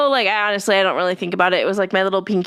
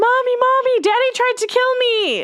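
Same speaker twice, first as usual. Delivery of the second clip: put-on shrill, very high, tearful child's crying wail. Retelling running into the house after a sledding crash: imitating own childhood crying yell. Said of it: "ran into the house crying, like, my face all scraped up and yelling".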